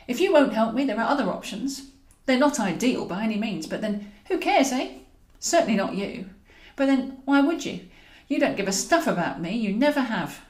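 hurt and lashing out at him; angry outburst. Acted. Woman's angry outburst at Humphrey.

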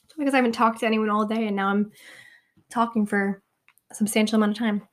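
soft, real tired-out voice; losing voice. Real, not acted. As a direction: talk softly as your voice gives out. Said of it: "losing my voice".

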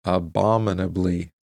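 "Abominably" said slowly, stressed on the BOM; careful pronunciation. Shown as a demonstration. Reader practicing a hard word after the computer, careful "Abominably". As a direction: sound out "Abominably" slowly, syllable by syllable. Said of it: "that's how you say it".

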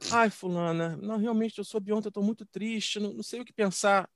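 mock sorrowful condolence. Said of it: "muito sentida".

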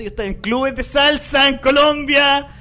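a hint of Colombian accent, slowed; mock Colombian accent. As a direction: lightly do her Colombian boast. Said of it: "esta mina empezó a contar".

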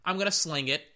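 high, brash talk-back; high cocky shut up; cocky quarterback voice. Retold or imitated. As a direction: play the QB snapping back at the fan. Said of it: "And Lamar's like".

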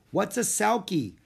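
put-on high eager girl's voice; bright young Annie; little girl voice. Annie's voice in story.

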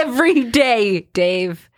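laughing. Real, not acted. Laughing echo of ad.

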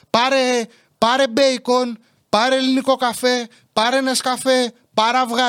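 high, insistent list of commands; mother giving orders. Retold or imitated. Mother ordering son round supermarket, bossy. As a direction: imitate mum firing off shopping orders. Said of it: "μου δίνει εντολές".

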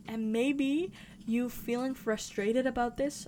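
slow, oddly stretched phrasing; said weirdly. Real, not acted. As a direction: drag the words out awkwardly. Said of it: "I don't know why I said it so weird".

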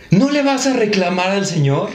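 half-shouted scolding, imitating a mother; mock maternal yell. Mother calling from the car window to her son, mock yell. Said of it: "mi jefa baja el cristal y me grita".

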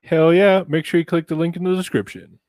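loud, high, fast hype; excited shout. Acted. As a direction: yell it like a pumped-up ad. Excited sponsor cheer.

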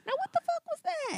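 white manager voice. Retold or imitated. Replaying cashier retort.

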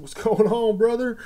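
high, laughing hello to a friend; laughing greeting. Retold or imitated. Clerk greets regular customer, laughing and high. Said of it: "I said".

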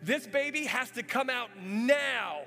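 slow, emphatic imitated doctor; urgent order. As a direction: spell out the emergency firmly.

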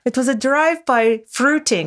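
high-pitched quote in a Scottish nanny voice; Missus Doubtfire. Pretend. Co-host quoting the film line, high Missus Doubtfire voice. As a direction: trill it like a prim old nanny. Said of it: "like, a Missus Doubtfire".

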